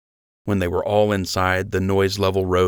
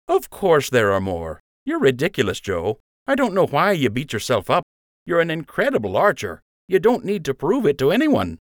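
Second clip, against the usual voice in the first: higher, playful buddy voice; teasing friend voice; 8 semitones higher than usual. A narrator's reading. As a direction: rib a friend affectionately. Lund's voice in story.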